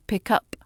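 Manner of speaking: "pick up" run together as pi-kup; linked K. Shown as a demonstration. Teacher showing linked speech, K moved onto up. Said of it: "K sound can move over to the up".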